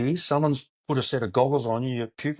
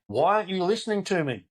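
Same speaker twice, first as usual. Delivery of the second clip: high-pitched retold yell from the corner; mock coach yelling; 8 semitones higher than usual. Corner coach yelling at a fighter who won't listen, mock yell. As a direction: imitate a frustrated coach yelling mid-fight. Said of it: "they're really yelling at 'em".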